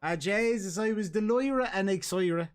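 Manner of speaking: broad Dublin exclamation; Dublin accent. Shown as a demonstration. Host showing co-host real Dublin slang, Dublin accent. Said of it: "And they actually say this".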